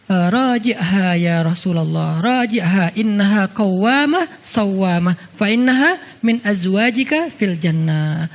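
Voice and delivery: slow, measured Arabic delivery; slow solemn recitation. Acted. Jibril delivering Allah's command to the Prophet, slow and solemn. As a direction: recite it slowly like a divine message.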